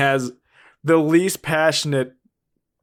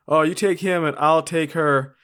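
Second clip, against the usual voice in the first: casual, offhand; 3 semitones higher than usual. Shown as a demonstration. Showing the bad guys' plan should sound offhand, casual. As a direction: toss it off like making plans for card night. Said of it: "sound like you're talking about, like, playing cards later".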